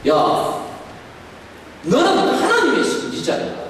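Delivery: God scolding Elijah in a high, harsh voice. Pretend. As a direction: bark it like a harsh master. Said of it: "이렇게 윽박 지르지 않았습니다".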